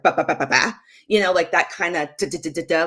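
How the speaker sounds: rattled-off staccato syllables; abrupt. Retold or imitated. Mom mimicking how short she was with her son, abrupt. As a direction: imitate a curt, rapid-fire tone. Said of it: "it was very abrupt".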